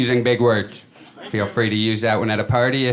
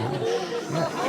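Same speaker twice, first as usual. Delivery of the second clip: hushed whispered realization; 8 dB quieter than usual. Retold or imitated. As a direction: breathe it out as a whisper. Sudden realization, aside.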